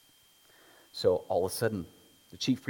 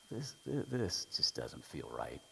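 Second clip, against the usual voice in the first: softer, slower, lower uneasy thought; Pilate's doubt; 6 semitones lower, 8 dB quieter than usual. Retold or imitated. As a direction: think it aloud, troubled.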